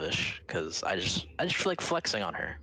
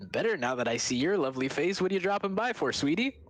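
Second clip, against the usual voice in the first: Doodle Bob voice; 10 semitones higher than usual. Acted. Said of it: "mine will sound like the".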